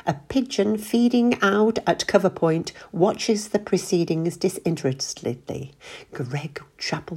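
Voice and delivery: lightly voiced cricket commentary; a hint of a cricket commentator. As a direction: mimic a TV cricket commentator, a little hushed. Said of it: "John Alcott would be in his element".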